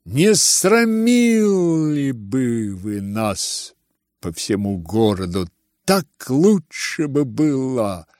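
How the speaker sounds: bitter reproach. Acted. Ganya scolds his father.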